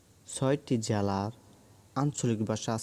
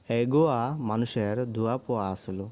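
Chittagong dialect. Shown as a demonstration. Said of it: "চট্টগ্রামের আঞ্চলিক ভাষা হলো".

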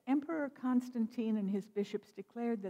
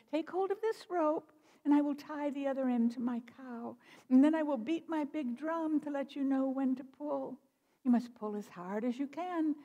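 higher-pitched, lightly voiced rabbit; Brother Rabbit giving instructions; 5 semitones higher than usual. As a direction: lightly play a trickster rabbit explaining his plan.

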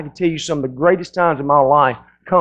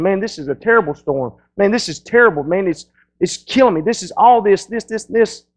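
complaining; 3 semitones higher than usual. Retold or imitated. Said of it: "we call the pity party".

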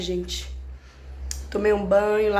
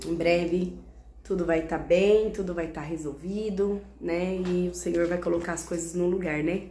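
sad and quiet; 6 dB quieter than usual. Real, not acted. Sad quiet closing talk.

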